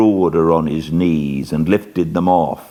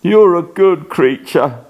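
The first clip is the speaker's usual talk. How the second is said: grateful plea; 12 semitones higher, 5 dB louder than usual. Acted. Grateful dying man.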